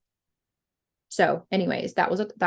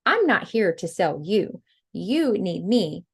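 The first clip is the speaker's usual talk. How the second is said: confident attitude; slower than usual. Shown as a demonstration. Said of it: "have that attitude".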